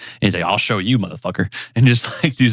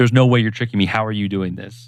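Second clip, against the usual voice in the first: acted, super angry outburst. Recapping a show, acting out Bakugo after being tricked, imitating angry Bakugo. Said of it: "he's like gets super angry".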